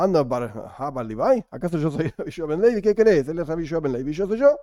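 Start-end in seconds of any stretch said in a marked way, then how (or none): 1.5-4.6 acted exasperation, brisk and lifted; indignant retort. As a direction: push back at an unfair comparison, pitch springing up. Quoted rabbi rejects comparison, indignant.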